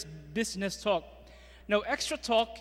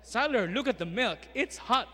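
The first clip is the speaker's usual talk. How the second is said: put-on louder, lively talk to a child; extra talk to toddler; 3 semitones higher, 4 dB louder than usual. Shown as a demonstration. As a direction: point something out to a toddler. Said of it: "Jibo is now doing a, an, an extra talk".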